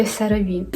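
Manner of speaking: CeraVe said "se-ra-VEE"; supposedly correct pronunciation. Shown as a demonstration. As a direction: say CeraVe with an S at the start, "seravi". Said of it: "начебто правильно говорити".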